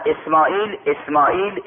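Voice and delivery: put-on calling a boy by name with rising endings. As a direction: call his name at an ordinary volume to get his attention. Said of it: "شیطان صدا زد". (صدا زدن با لحن خیزان)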